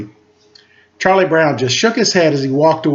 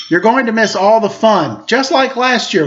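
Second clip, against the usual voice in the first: higher, teasing tone; scolding; 5 semitones higher than usual. Acted. Lucy teasing Linus about missing the fun, higher and mocking. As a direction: needle him like a bossy sister. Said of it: "Lucy told him".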